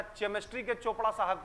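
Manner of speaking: "केमिस्ट्री" said with a ch sound, as chemistry spelt; misread chemistry. Retold or imitated. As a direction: say "केमिस्ट्री" starting like "chair". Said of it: "केमिस्ट्री होता है कि केमिस्ट्री होता है". ("केमिस्ट्री" को "च" से, चेमिस्ट्री बोलें)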